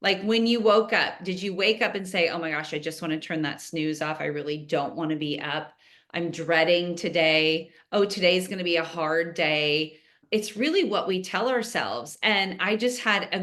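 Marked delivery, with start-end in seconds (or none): 2.3-10.0 mope like you can't face the day; groggy dread. Retold or imitated. A listener dreading the alarm, mock groggy grumble.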